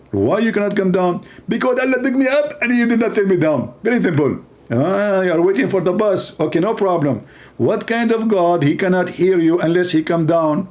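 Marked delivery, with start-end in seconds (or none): 1.5-4.4 a higher, put-on smug preacher; a lightly voiced, self-satisfied preacher; mock Zakir Naik. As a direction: answer with mock certainty. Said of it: "He speak like this".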